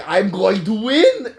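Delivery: slow, high mock villain boast; Red Skull. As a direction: crow it like a hammed-up villain. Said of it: "But he's like".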